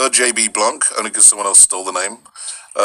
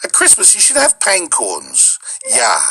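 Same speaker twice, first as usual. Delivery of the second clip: put-on high, drawn-out Fargo accent; Minnesota accent; 3 semitones higher, slower than usual. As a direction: stretch the vowels like Minnesota. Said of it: "And that Minnesota, that whole Wa-, Fargo accent".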